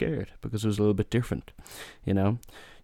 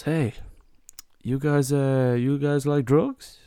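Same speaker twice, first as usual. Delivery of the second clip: higher, louder, slowed-down hustler voice; shady taxi driver; 5 semitones higher, 4 dB louder, slower than usual. Retold or imitated. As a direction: dangle the offer slowly like a dodgy cabbie. Taxi driver offering drugs, retold.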